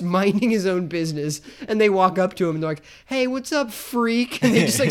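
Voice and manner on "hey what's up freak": mock bully taunt. Acting out bullies walking up.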